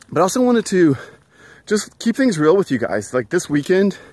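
slightly winded while walking; out of breath. Real, not acted. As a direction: talk a little out of breath. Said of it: "I'm out of breath a little bit".

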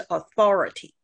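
"authority" stressed on the second syllable; noun stress. Shown as a demonstration. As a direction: model "authority" with weight on THOR. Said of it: "名词是authority". (“authority”重音在第二音节 THOR)

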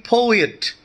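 "poet" with the first syllable stressed; POet, second syllable unstressed. Shown as a demonstration. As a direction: lean on the "po" in "poet". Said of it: "first syllable is always stressed".

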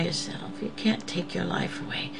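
hushed earnest counsel; whisper. Retold or imitated. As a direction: whisper it gently but firmly. Quoted counsel, unvoiced.

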